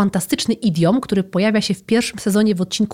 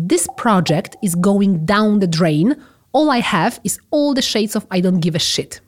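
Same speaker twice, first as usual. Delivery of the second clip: slow example sentence. Shown as a demonstration. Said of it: "możemy powiedzieć".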